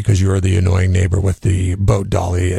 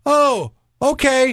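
much higher, slow, drawn-out meek reply; deflated neighbor; slower than usual. Retold or imitated. The busybody neighbor giving up, high slow mock voice. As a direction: let the wind out of her sails.

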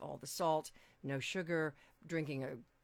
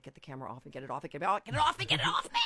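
fast, rising, panicked pleading; phobic panic; 2 semitones lower, 5 dB louder, much faster than usual. Pretend. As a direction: get the camera off me, frantic. Camera panic, self-conscious.

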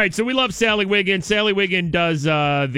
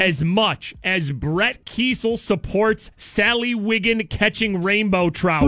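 mock-solemn tribute. Host honors fishing partner's support, mock-solemn tribute.

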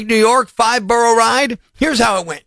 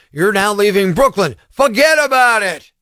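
attempted Brooklyn accent. Radio host reading out a Brooklyn road sign, attempted Brooklyn accent. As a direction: have a rough go at a Brooklyn accent. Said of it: "I can't do the accent".

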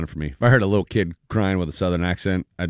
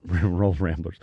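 laughing cheer; 4 semitones lower, 3 dB quieter, much slower than usual. Real, not acted.

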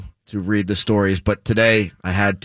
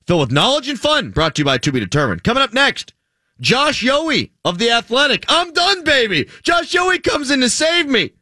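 much higher, hammed-up radio hype; hyped announcer; 11 semitones higher than usual. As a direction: sell the segment like a carnival barker. Hyped host segment announcement.

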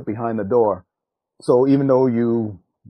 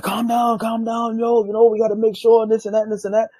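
high-pitched, hurried calming down; quick retold appeasement; acted placating; 11 semitones higher than usual. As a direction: imitate someone talking a friend down. Other man placates him in story.

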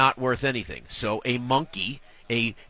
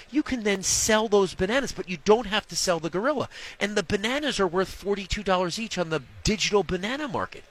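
mock sales pitch; 6 semitones higher than usual. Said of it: "with a straight face".

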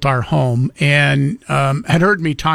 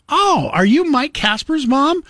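higher, retold delighted question; mock surprise; 11 semitones higher than usual. Clerk asks a customer, mock surprised and higher. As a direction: play the bright clerk who just figured it out. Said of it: "And I go".

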